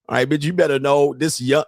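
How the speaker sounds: ordinary talk, nothing marked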